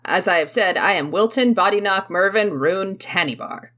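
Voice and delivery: loud, emphatic character introduction; grand self-introduction. Acted. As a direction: announce each name loudly and proudly. In character, announcing full name.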